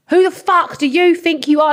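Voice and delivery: mock aggressive "who are you" outburst; imitated in-your-face confrontation. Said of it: "really getting in my face".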